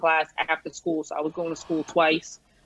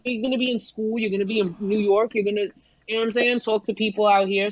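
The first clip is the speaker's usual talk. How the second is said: mother insisting; 4 semitones higher than usual. Retold or imitated. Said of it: "she's like".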